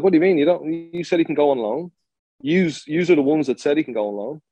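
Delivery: mildly acted indignation, pressing the accusation; indignant challenge. Player challenging the club's backtracking over his loan, indignant. Retelling an indignant confrontation on phone.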